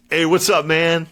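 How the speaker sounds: high, loud casual greeting; bright greeting. Retold or imitated. George turning to greet the gunny, high breezy hello. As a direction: turn and greet him breezily.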